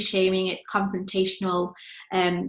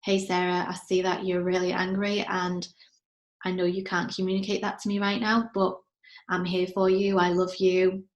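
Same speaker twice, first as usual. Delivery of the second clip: gentle reassuring mum. Shown as a demonstration. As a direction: reassure an angry child gently. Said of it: "mum to walk into the room and go".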